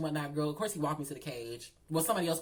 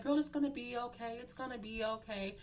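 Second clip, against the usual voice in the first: soft, higher-pitched soothing; mock reassurance; 5 semitones higher, 5 dB quieter than usual. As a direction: lightly comfort a crying girl. Retold comforting of a crying cellmate.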